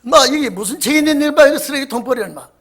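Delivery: loud scolding yell at the youths; retold scolding. Deacon yelling at youths over the trashed tract, loud scolding. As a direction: bawl them out for littering. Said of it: "막 호통을 치니까".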